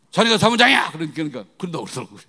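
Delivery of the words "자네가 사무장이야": loud, high confronting shout; acted-out angry challenge; retold shouting. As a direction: yell it at the man in charge. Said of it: "막 소리를 질렀더니".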